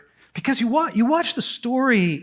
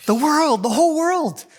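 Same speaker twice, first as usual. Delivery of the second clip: rising emphasis; 8 semitones higher, 4 dB louder than usual. Real, not acted. Building emphasis on gift.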